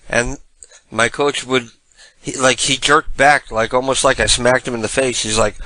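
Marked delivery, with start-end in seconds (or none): none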